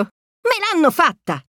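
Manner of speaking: hammed-up defeat; foiled pirate. A narrator's reading. Foiled space pirate Pete grumbles, mock defeat. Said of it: "dice il pirata dello spazio Pietro".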